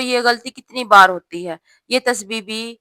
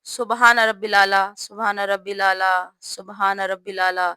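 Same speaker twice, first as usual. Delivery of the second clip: lighter, quicker mock with الاعلی clipped to lala; imitating a careless way. Teacher imitating sisters' careless recitation, lighter. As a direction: rattle off سبحان ربی الاعلی carelessly. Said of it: "کچھ میری بہنیں کہتی ہیں".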